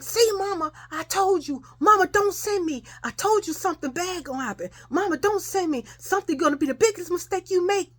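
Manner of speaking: high, whiny crying protest; imitated tearful pleading. Child crying to mama after being pinched, high pleading wail. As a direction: wail the plea like a sobbing child. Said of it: "And I'm steadily crying".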